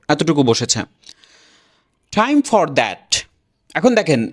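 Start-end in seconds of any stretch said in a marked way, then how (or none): 2.1-3.2 "Time for that" slow, with a clear final T; careful full pronunciation. Shown as a demonstration. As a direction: articulate each word of "Time for that". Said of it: "এভাবে কিন্তু তারা উচ্চারণ করবে না". (আস্তে, স্পষ্ট T সহ Time for that)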